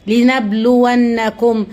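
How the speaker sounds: slow, drawn-out recitation of لنبلونكم; slow Quranic recitation. Acted. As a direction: chant the verse slowly, each syllable stretched. Repeats the recited verse.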